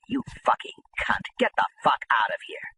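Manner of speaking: a harsh, contemptuous whisper; retold rage at the widow, whispered; angry whisper. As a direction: spit the insult out under his breath. Telling off the friend's widow.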